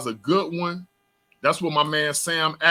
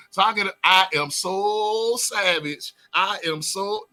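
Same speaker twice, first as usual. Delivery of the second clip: hyped up; 3 semitones higher, slower than usual. Real, not acted. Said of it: "let me calm down".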